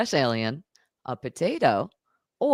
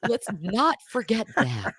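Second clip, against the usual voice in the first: amused, higher-pitched reminder; laughing; 4 semitones higher, 3 dB quieter than usual. Real, not acted. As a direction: say it through laughter. Reacting to the joke through laughter.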